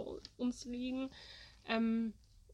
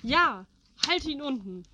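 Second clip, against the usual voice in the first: loud cheering yell; cheering shout; 7 dB louder than usual. Retold or imitated. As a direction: egg him on at full shout. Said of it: "feuert ihn an und schreit".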